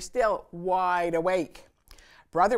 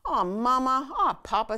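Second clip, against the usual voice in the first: whining cubs; 9 semitones higher, 5 dB louder than usual. A narrator's reading. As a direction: groan like kids sent to bed. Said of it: "said the cubs".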